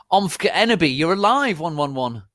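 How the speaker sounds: very high, loud hammed-up cry; mock scream. Vampire greeting Ebony, high mock squeal. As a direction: squeal it in joy. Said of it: "screamed Vampire".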